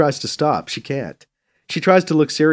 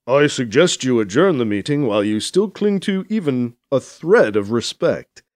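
dry adviser. Acted. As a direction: offer pointed advice, unhurried. Voices Del advising.

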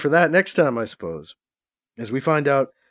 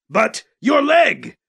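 high, slow, drawn-out protest; 8 semitones higher, 5 dB louder, much slower than usual. A narrator's reading. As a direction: object in dismay as Kat. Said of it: "Kat protested".

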